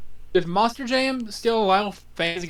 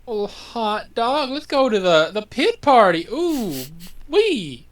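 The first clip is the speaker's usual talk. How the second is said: lightly voiced goofy dad, higher; hammed-up corny dad cheer; white dad impression; 4 semitones higher, 4 dB louder, slower than usual. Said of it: "my best impression of a, uh, a white dad".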